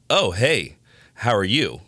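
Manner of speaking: high, loud, loaded hello; pointed fake-friendly greeting. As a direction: imitate her loaded tone of greeting. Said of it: "I know that tone of voice".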